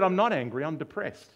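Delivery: high, loud protest, easing off; insistent denial. Retold or imitated. Patient answering his psychiatrist, insistent denial. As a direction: deny it firmly, as the retold patient.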